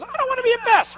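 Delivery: very high whiny little voice; whiny inner voice. Retold or imitated. Trainer mimicking a seller's fearful inner voice, high and whiny. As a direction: squeak it out like an anxious inner voice. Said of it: "your little voice goes".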